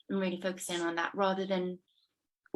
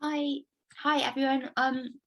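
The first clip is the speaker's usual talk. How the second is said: talking through a mouthful of apple; biting an apple; 5 semitones higher, 4 dB louder than usual. Real, not acted. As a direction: speak around a bite of apple. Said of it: "I'm eating an apple".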